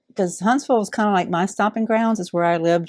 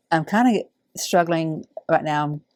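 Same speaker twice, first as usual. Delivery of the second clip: holding back tears. Real, not acted. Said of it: "trying not to get emotional".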